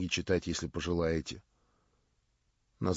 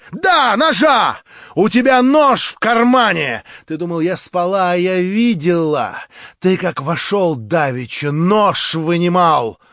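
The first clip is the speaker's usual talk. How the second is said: much higher, louder, proud; Marya, defiant; 8 semitones higher, 12 dB louder than usual. A narrator's reading. Marya scorns her would-be prince, high and loud. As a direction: cry it out with haughty scorn.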